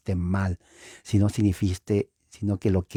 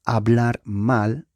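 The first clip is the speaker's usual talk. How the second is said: lento y marcado; 2 semitones higher, slower than usual. Shown as a demonstration. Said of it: "bendecir es bien decir".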